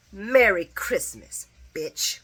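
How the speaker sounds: drawn-out, mocking holiday goodbye; a slow, cutting send-off that spits the last word; slow sassy farewell. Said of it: "And then she said".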